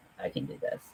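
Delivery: soft, whispered self-talk. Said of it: "So I was like".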